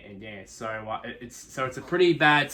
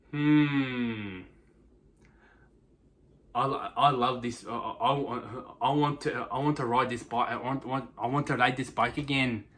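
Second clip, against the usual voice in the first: lightly put-on, hammy Japanese accent; half-hearted mock Japanese accent, musing about the bike; terrible Japanese accent. Rider dreaming of his new Honda bike, in a light mock Japanese accent. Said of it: "that's my terrible Japanese accent".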